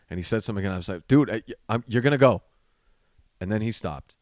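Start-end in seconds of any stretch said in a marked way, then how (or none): 1.1-2.4 louder, retold firm warning; firm ultimatum. Comic warning the drunk guy to leave, firm ultimatum. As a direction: lay down a mildly exasperated ultimatum.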